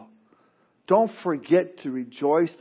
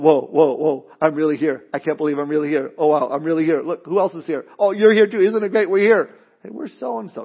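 amazed arrival. Acted.

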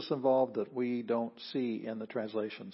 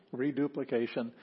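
laughing. Real, not acted. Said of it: "redundant to me".

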